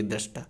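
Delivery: दृष्टा repeated quietly, with a slight rise at the end; whisper-soft model of दृष्टा; a softly spoken दृष्टा; soft correct pronunciation. Shown as a demonstration. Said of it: "सही उच्चारण इसका यही है".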